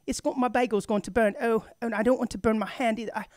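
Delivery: fretting in a put-on English accent. Imitating a hotel guest stuck with a bagel, British accent. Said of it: "She wasn't speaking in an English accent".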